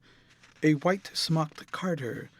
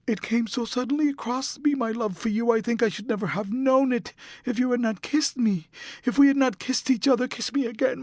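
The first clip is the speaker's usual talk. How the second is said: put-on higher young woman's voice, begging urgently; a young actress clinging to her lover, pleading; desperate pleading girl; 7 semitones higher, 4 dB louder than usual. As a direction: beg him not to leave, voice climbing. Sybil pleading with Dorian.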